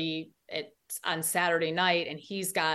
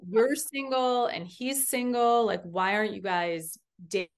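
teasing wives; 4 semitones higher, 3 dB louder than usual. Retold or imitated. Wives teasing her about him.

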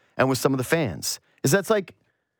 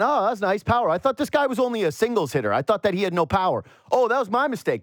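sarcastic surprise; 6 semitones higher than usual. Retold or imitated. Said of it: "And you went".

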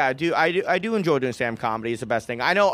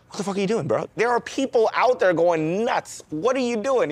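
raised, higher, exasperated cop voice; mock angry cop; 6 semitones higher than usual. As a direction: play the cop losing patience, pushing up in pitch. Cop yelling at clueless dad.

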